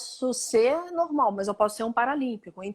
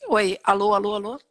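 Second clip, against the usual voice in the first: louder calling out on a call; to someone hard of hearing; 2 semitones lower, 5 dB louder than usual. Real, not acted. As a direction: call out to check the line. Audio lost on video call.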